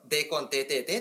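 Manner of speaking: Okayama dialect, the vowels stretched and smoothed together. Shown as a demonstration. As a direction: turn it into lazy Okayama speech. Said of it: "岡山弁っぽく言うと".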